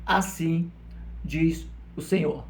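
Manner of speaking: slow declaration with weighty pauses; prophetic proclamation. Retold or imitated. Preacher answering his question with Isaiah's words, slow proclamation. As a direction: space it out like a prophet's formula. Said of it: "um homem de Deus falando o quê?".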